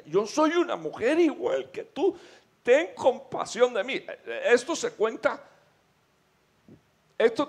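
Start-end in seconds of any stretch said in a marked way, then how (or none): 0.0-4.0 demon voice. Acted. Demonio en la mujer tirada en el piso, suplicando a la esposa, voz alta y lenta.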